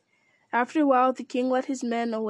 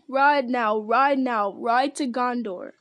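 loud, slow rallying shout; loud battle cry; 3 dB louder, slower than usual. Acted. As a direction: call the charge to the army. King's battle cry repeated.

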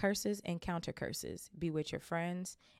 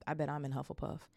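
gloomy. Acted. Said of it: "said Harry gloomily".

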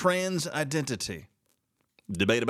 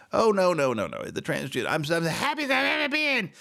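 high mock voice of a happy trans person; mocking imitation; 6 semitones higher than usual. Mocking critics claiming they're happy, high mock voice. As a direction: lightly mimic a cheerful denial. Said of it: "they try to lie to you and go".

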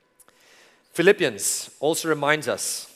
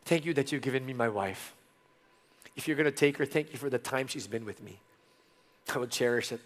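emotional prayer; 4 dB quieter than usual. Real, not acted. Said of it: "I'm getting emotional as I think about this".

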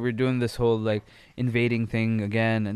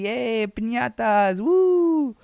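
high, cheery mock party cheer; mock-festive cheering, voice way up; happy party wrestlers; 9 semitones higher, 3 dB louder, much slower than usual. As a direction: imitate happy revellers, ending in a loud high whoop. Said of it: "supposed to be, like, happy, lovey".

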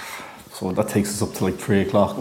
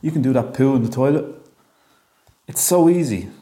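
encouraging words; 5 semitones higher than usual. Pretend. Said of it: "try give him some words of encouragement".

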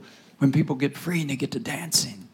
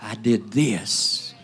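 whispered ritual voice; 5 semitones lower than usual. Retold or imitated. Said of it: "the voodoo person does the same thing".

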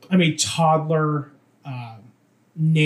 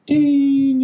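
high, drawn-out bell ding; register ding; 10 semitones higher, 5 dB louder than usual. Shown as a demonstration. Explaining cashier work to friends, drawn-out ding. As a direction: sing out a cash register ding.

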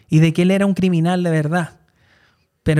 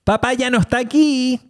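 killer voice; 5 semitones higher than usual. Retold or imitated. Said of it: "con la voz de asesino".

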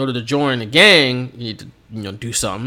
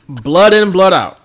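slightly higher, louder mock yell; 5 semitones higher, 7 dB louder, slower than usual. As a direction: bark the chant like a manager. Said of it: "And he's yelling".

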